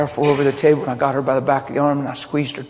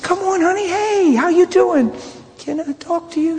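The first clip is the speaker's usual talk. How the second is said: welcoming greeting. Retold or imitated. Pastor greeting girls at his door.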